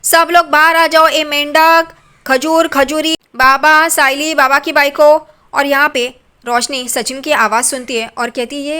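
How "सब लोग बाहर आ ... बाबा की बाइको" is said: loud, high call to the whole house; shouting for everyone. Acted. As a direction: yell so everyone comes out. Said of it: "तब ये चिल्ला रहा है".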